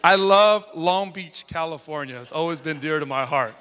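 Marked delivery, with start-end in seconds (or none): 0.0-2.2 loud, slow, drawn-out declaration; slow booming love for the city; wake-up declaration. Real, not acted. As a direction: stretch it out big to wake them. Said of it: "I'm hoping that wakes you up".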